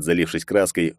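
ordinary delivery, nothing marked

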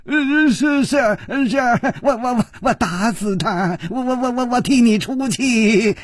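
high, stuttering henpecked husband; scared, stuck on every word; terrified stammer. A narrator's reading. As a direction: stammer out a frightened promise in a high voice. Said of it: "失踪船的脸色".

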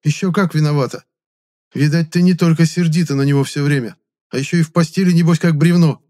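angry scolding. A narrator's reading. Quarrel, scolding Klara.

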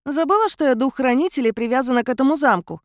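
cat-mouse spirit chiding the heroine. A narrator's reading. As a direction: remind her as the spirit.

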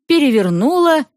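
plain reading voice

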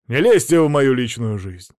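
loud cutting snap; curt retort. Acted. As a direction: shut him down loudly. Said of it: "отрезал Мамонов".

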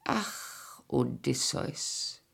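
soft, whispered lament of his name; breathy sigh. Acted. Sighing lament over her husband.

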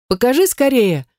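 lightly voiced excited girl; delighted. A narrator's reading. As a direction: beg to see it, clapping with joy. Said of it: "радостно захлопала в ладоши подружка".

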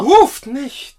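sharp high shout to stop her; urgent plea. Acted. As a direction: cut her off before she calls. Giacomo hält sie vom Rufen ab. (dringender, lauter Ausruf)

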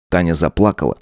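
plain reading voice

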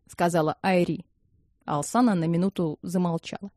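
ordinary delivery, nothing marked

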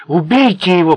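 loud, seething kill order; furious hiss. Acted. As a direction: spit it out in helpless rage. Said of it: "прошипел он".

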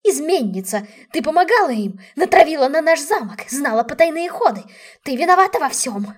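aunt screaming at her niece, the traitor; furious yelling. A narrator's reading. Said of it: "заорала тётушка".

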